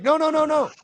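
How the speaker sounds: high-pitched mock "no, no, no"; imitated hasty protest. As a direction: cut in like a worried buyer, voice jumping up. Retold buyer urgently stopping them.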